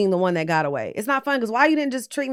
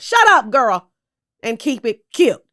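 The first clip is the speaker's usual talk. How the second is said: sassy telling-off; 5 dB louder, slower than usual. Real, not acted. Telling off Tamra.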